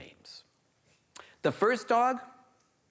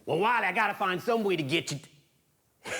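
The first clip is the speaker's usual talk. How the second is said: put-on villain voice, higher opening; hairy man; 4 semitones higher than usual. Hairy man plotting to get Wiley down, scheming. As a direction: scheme aloud as the monster.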